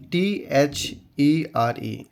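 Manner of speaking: spelling T-H-E-R-E slowly letter by letter; spelled out letter by letter. Shown as a demonstration. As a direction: read out टीएचईआरई as separate letters, slowly. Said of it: "इसको हम पढ़ेंगे देयर".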